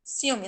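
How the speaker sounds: "Ciúme" as SIW-me, vowels in one syllable; said together. Shown as a demonstration. Teacher repeats the wrong form, "Ciúme" with vowels merged. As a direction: slide I into U in "Ciúme". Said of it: "Se não fosse".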